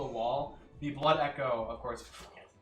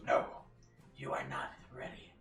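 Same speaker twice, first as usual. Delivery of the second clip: horror host; 12 semitones lower, 3 dB quieter than usual. Acted. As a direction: whisper like a voice in the head. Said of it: "a voice in your head that goes".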